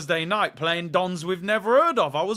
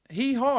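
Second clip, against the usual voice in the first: light donkey bray, a bit higher; hee haw; 6 semitones higher than usual. Shown as a demonstration. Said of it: "Everyone's saying hee haw".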